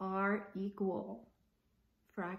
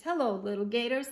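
fast, louder sneer; 4 dB louder, much faster than usual. Acted. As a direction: gangster gators mocking the little ones. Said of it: "they said with a sneer".

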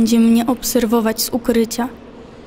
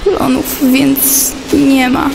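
slow closing line; 4 dB louder, much slower than usual. Acted. Slow final line of poem.

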